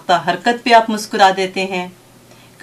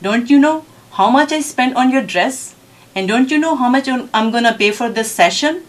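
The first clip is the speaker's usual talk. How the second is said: imitated indignant mother, higher and drawn out; slow, higher-pitched telling-off, acted; angry scolding; 5 semitones higher, much slower than usual. Mother scolds child over money spent, angrily. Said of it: "اس کے پاس گئی اور غصے سے کہا".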